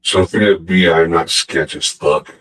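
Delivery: voice changer. Real, not acted. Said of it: "dude, you should hear your voice".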